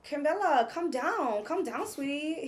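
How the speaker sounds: lightly voiced soothing host; a hint of the meme lady; mimicking Jonathan. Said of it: "He sounded like that lady out that little meme".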